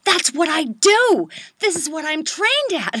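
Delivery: high, drawn-out mock outburst; exasperated disbelief. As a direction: protest loudly, stretching words in exasperation. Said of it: "I just wanna shoot them".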